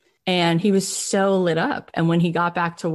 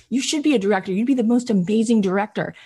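passionate, higher-pitched encouragement; retold keen enthusiasm; Brian Grazer; 4 semitones higher, faster than usual. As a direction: gush like an eager young fan. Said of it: "so, like, just passionate".

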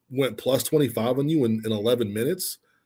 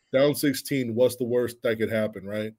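sarcastic. Retold or imitated. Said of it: "Just, like, sarcastically".

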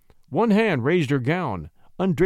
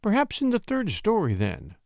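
higher, curious lilt; coy lady; 6 semitones higher than usual. Acted. Lady pressing the poet, higher and coy. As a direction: tease out the answer.

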